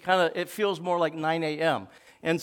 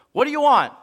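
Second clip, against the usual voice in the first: gruff barked question; loud, rough diner cook; 7 semitones higher, 9 dB louder, faster than usual. Retold or imitated. Gruff cook asks Tony.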